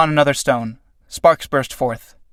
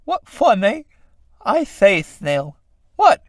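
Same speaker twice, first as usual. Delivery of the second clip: high, silly snail voices; snail characters; 5 semitones higher, slower than usual. Acted. Two snails spotting a man struggling, high piping voices. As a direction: pipe it high and leisurely. Snails watch him die.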